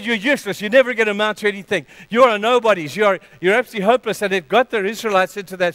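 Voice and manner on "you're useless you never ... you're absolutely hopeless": loud, fast, mocking taunts; Goliath taunting. Goliath shaming the Israelites, loud fast taunting. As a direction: sneer it out fast like a giant bullying his enemy. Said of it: "He said".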